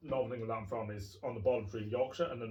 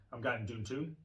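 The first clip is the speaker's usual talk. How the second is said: put-on Geordie accent. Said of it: "if you're trying to do a Geordie accent".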